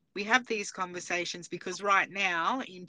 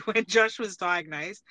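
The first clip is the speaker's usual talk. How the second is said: said through a laugh, louder; 5 dB louder than usual. Real, not acted. Mother telling listeners about son's diagnosis, laughing. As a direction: laugh while telling a painful memory. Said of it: "again, I'm laughing".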